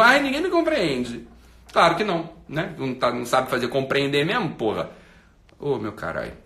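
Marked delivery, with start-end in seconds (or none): 0.0-1.3 higher, whiny imitation; mock self-pity. Host mimicking the follower's complaint, mock self-pity. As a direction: briefly mimic a misunderstood victim.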